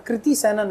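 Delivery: कृति as "kriti"; name demo with "kri" in कृति; correct pronunciation. Shown as a demonstration. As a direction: say कृति Sanon with "kri", not "kra". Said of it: "normally हम क्या पढ़ते हैं".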